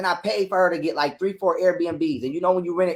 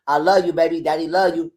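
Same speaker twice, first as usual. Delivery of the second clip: calm and tender; 3 semitones lower than usual. Retold or imitated. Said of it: "I'm being calm".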